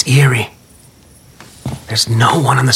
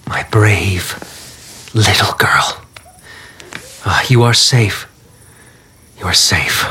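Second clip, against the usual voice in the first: tender reassurance; 4 semitones lower than usual. Acted. Father soothes his young daughter.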